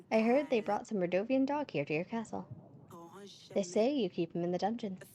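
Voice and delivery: lightly attempted character accent; Via Lint. Visitor bargaining with the ruler, lightly put-on accent. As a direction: have a tentative go at an accent. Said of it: "gonna be the correct accent".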